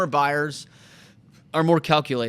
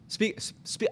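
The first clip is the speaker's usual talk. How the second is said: whisper; 5 semitones higher, 8 dB quieter than usual. Retold or imitated. Urging agent to speak up.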